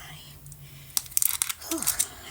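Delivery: soft, winded exhale; tired sigh. Real, not acted. Winded while doing her hair.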